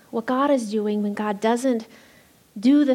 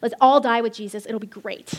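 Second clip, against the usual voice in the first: gloomy Thomas; 3 dB louder than usual. Acted. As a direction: play Thomas as a doom-laden Eeyore. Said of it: "Jesus had an Eeyore".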